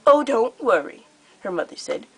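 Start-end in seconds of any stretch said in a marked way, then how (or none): 0.1-1.1 high, louder, theatrically sweet menace; gleeful cruel queen. Acted. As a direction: purr out the threat like a delighted tyrant. Her mother, the queen.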